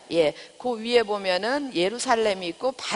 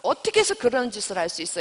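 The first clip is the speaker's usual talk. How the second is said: angry rebuke. Retold or imitated. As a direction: scold him like an offended king, fast. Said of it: "굉장히 화를 내면서 이제 질책을 해요".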